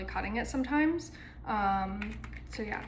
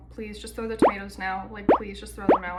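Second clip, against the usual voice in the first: mock pleading; 2 semitones lower, 6 dB louder than usual. Mock shame over Marvel.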